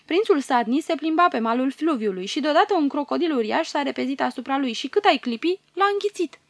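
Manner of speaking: high, sobbing report; shaken with sobs. Acted. Guard captain tells Pharaoh of the prince's death, sobbing. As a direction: tell it through rising sobs. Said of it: "Ostașul povestește zguduit de plâns".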